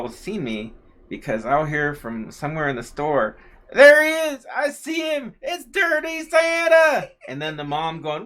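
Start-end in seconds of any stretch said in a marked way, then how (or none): 3.7-7.1 very high, loud yell from afar; little girl yelling across Walmart; child shouting. Retold or imitated. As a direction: call out across the store. Girl calling across the store.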